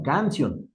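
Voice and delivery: Canción stressed on the first syllable, CAN-cion; wrong stress. Shown as a demonstration. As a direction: say Canción as CANcion, to fit the rule. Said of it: "Así debería decir".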